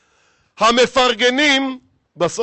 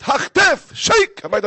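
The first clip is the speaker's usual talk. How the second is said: loud, high mock shriek dropping to sharp orders; frightened wife's yell; 5 semitones higher, 6 dB louder than usual. Wife shouting in fear as husband comes home, hammed-up yell. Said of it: "אשתו מהפחד צועקת".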